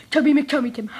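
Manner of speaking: giggling through the name, fast; rattled off through laughter; laughing. Shown as a demonstration. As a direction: laugh while saying it quickly.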